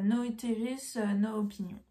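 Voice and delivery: English with a strong French accent; bad English accent. Real, not acted. Vlogger reads a yarn name aloud, French-accented English. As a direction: read the English with French sounds. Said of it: "j'ai un accent anglais pourri".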